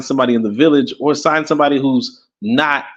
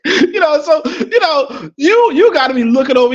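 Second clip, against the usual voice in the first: laughing through words; 12 semitones higher than usual. Real, not acted. Laughter carrying into speech.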